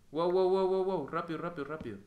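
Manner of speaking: high, loud urgent alarm; alarma repentina. Real, not acted. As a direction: blurt it out in a sudden panic. Panicked urgency in the game. (alarmado, con urgencia)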